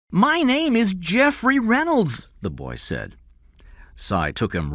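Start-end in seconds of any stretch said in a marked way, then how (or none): 0.1-2.3 put-on higher, slow frightened boy's voice; a young boy insisting on his name, nervous; scared boy Jeff.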